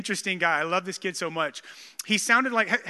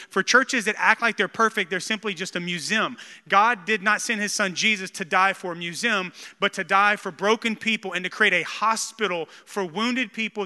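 emphatic declaration, key words punched louder; preaching; 3 dB louder than usual. Real, not acted. Pastor declaring what his church is for, preaching. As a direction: preach it with building conviction. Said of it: "I'm just gonna preach that".

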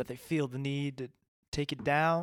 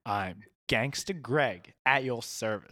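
gangster voice. Acted. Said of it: "the gangster voice".

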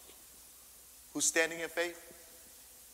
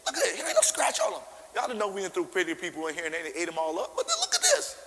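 amazed squeal. Retold or imitated. Marvelling preacher, squeaky high.

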